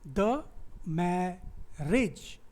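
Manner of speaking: द मैरिज very slow, broken up with मै stressed; stress demonstration. Shown as a demonstration. Teacher showing where stress falls in marriage, slow stressed demonstration. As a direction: split द मैरिज into beats, leaning on मै. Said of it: "मैरिज में ए को तो stress हुआ".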